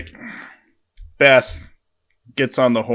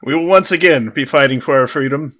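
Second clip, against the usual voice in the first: measured speech with pauses between phrases; mock-solemn commander's address; Independence Day speech. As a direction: announce it as a movie rallying speech. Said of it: "I'm gonna do the Independence Day speech".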